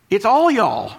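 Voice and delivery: all pressed down with a falling tune; emphatic all y'all. Shown as a demonstration. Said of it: "if you want to emphasize".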